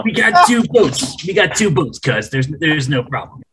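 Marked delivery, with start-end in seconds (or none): 0.0-2.3 mobster voice. Acted. Mobster character banter.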